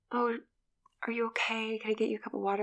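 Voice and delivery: soft whispered fake sympathy; Hetty's gentle concern. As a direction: coo at her like a too-helpful stranger. Hetty voiced finding Allison crying.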